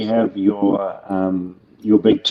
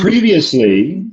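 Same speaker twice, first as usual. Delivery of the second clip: slow, higher, louder Previously; dramatic trailer read; 8 semitones higher, 6 dB louder, slower than usual. Shown as a demonstration. Asked for an alt, he opens with a big slow Previously. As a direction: stretch "Previously" out like a film trailer. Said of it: "give us an alt".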